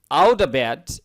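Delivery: "out of bed" as "auda bed"; American flap. Shown as a demonstration. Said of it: "out of থাকলে আউডা উচ্চারণ হয়". ("out of bed" আউডা বেড উচ্চারণে)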